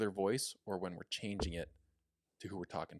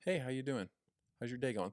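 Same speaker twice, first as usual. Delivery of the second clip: easy, friendly hello with a smile; smile, but keep close to your normal voice; natural, unforced phone greeting; smiling greeting; 4 semitones higher than usual. Shown as a demonstration. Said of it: "I'm smiling and saying just like".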